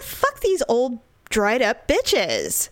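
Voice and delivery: slow, deliberate, contemptuous; retold defiance. Defying the older women judging her dress, slow scornful. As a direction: drag each word out with scorn.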